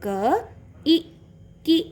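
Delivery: क, ई, की in separate beats, vowel in ई and की short; short vowel blend. Shown as a demonstration. Teacher blending for children, short ई and की. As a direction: sound out क, ई, की with a brief final vowel. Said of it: "तो इसका sound क्या हो जाएगा".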